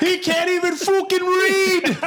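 hammed-up Irish trash talk breaking into laughter; trash talk impression. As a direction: jeer it like a trash-talking fighter. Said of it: "McGregor's like".

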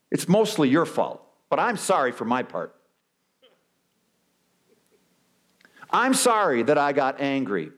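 grudging sorry, rising into blaming excuses; hammed-up self-justifying apologizer; mock qualified apology. Preacher mocking a qualified apology, grudging then indignant.

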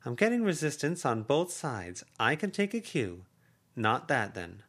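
voiced aunt, high and urging; effusive aunt. Aunt backs off playfully.

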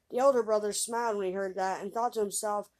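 ordinary delivery, nothing marked

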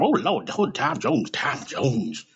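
mock swooning, starting high and sliding down; hammed-up fangirl moaning; adoring fan mom. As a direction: imitate a mother gushing over her idol. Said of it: "My mom loved a singer".

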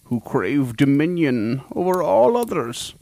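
slow, hushed dramatic narration; ominous slow cold open. Acted. Host opens the monster episode with slow ominous narration. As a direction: draw them in slowly like a dark storyteller.

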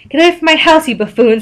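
high-pitched indignant yell; mild yell. A narrator's reading. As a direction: yell it lightly at someone outside. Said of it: "Squidward yelled out the window".

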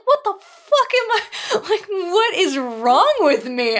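very high, drawn-out laughing squeal; squeaky self-mockery. Woman mocking her own recorded voice, high squeaky wail. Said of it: "I sound like a fucking chipmunk".

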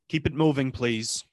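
put-on nasal old New Yorker; New York accent. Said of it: "nasally voice, talk like this".

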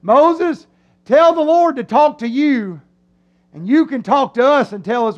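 lightly acted nervous request to Moses; mock freaked-out plea. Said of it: "this is what they tell Moses".

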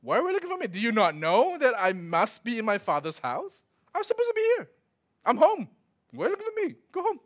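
put-on high, sharp reply of a boy; high indignant boy. Shown as a demonstration. Twelve-year-old Jesus answering his parents, high and sharp. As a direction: fire back, high and pointed.

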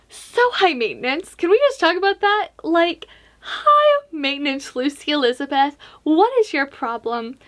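playful mock scolding of yourself; mock exasperation. Mock scolding her past self.

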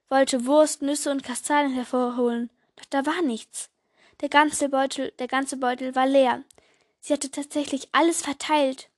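put-on lively storytelling voice for children; story narration. A narrator's reading. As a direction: read it like a bedtime story. Reads Christmas story aloud. (Geschichte vorlesen für Kinder)

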